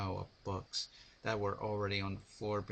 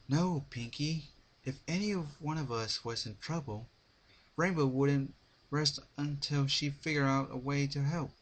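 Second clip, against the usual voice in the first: slurred tired voice; 6 semitones higher, 5 dB louder than usual. A narrator's reading. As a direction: drag the words like you haven't slept. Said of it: "Twilight said with a slurred, tired voice".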